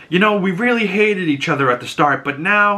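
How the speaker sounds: mock dreamy Lilia. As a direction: drift off mid-thought. Lilia trailing off.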